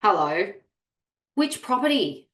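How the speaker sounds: curt, cold reply; terse, unwelcoming voice; negative tone. Shown as a demonstration. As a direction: sound put out and unhelpful. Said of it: "read it in a negative tone".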